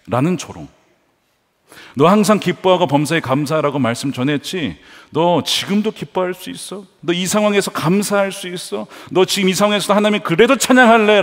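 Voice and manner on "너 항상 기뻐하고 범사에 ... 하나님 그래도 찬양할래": acted jeering questions, rising in pitch; mocking taunt. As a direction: taunt with building challenge, higher toward the end. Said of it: "라고 조롱하는 거예요".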